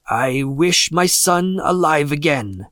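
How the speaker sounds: slow, deliberate pronouncement; solemn wish. A narrator's reading. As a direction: intone it slowly and firmly. Old man makes the wish.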